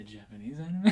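sneaky imitation. Co-host mimics how the host says it, mock sneaky. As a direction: mimic a sly aside, understated. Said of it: "I didn't say it like that".

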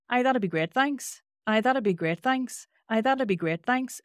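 Northern Irish lilt, looped on the same tune. Shown as a demonstration. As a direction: answer in a singsong Northern Irish accent, lifting "thanks". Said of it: "the answer in Northern Irish might be".

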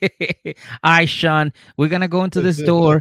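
high, loud mock game chatter; game teammate. Acted game teammate giving orders.

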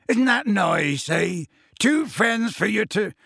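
jolly the giant along; high-pitched encouragement, as to a child; Hagrid coaxing. Acted.

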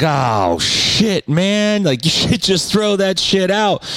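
high, laughing shock; amused disbelief, voice jumping up; laughing surprise. Retold or imitated. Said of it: "And I was like".

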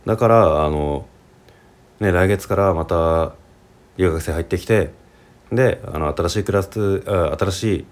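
Japanese with regional pitch accent and sounds, lightly done; relaxed chat in his own regional Japanese accent; his home dialect accent. Shown as a demonstration. Teacher shows learners his hometown dialect accent, regional Japanese pitch accent. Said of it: "こっからちょっと方言で話しますね".

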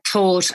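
"taught" with a hard, crisp T. Shown as a demonstration. Voice coach showing a hard Southern Irish T in "taught". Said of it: "he hits T's really hard".

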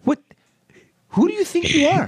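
high shrill outrage; indignant shriek. Pretend. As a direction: shriek it, deeply offended. Mock breakup quarrel.

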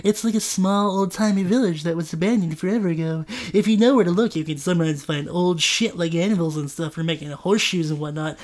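Trent's new voice. Acted. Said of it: "this is Trent's new voice".

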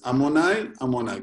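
first Amonai rising, then a falling Amonai; pause between names. Shown as a demonstration. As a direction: split Amonai, Amonai with a break. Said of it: "hay que hacer un efsek".

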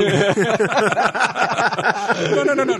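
high-pitched play-acted objection; mock protesting. Pretends to argue with doctor over committal, mock protest.

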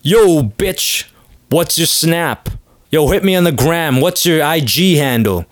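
put-on brash young guy, pitch up; modern bro. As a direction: call out cocky like a bro hitting on her. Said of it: "Now it's".

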